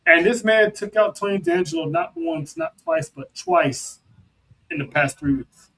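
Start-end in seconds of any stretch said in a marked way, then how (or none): 0.1-4.0 climbing higher phrase by phrase into a high-pitched finish; hyped build-up. Real, not acted. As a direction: build the hype, pitch rising on each count. Hyping a wrestler's repeated wins.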